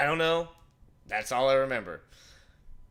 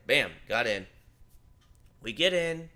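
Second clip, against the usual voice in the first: normal talking voice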